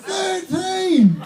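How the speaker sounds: "Thirteen!" punched high and amazed; stress on Thirteen. Acted. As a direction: hit "Thirteen" in astonishment. Incredulous repetition of number.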